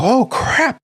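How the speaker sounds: high, sharp dismay; shocked oh crap. Retold or imitated. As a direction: realize the mistake all at once. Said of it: "And I go".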